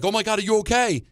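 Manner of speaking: high-pitched fussing, acted out; mock worried parent. Dad imagined fussing over his hurt child, mock worried. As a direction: imitate an over-concerned parent. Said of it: "he never got upset".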